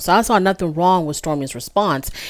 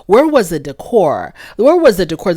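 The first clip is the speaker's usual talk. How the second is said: pressing question. Retold or imitated. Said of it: "she kept on repeating that question".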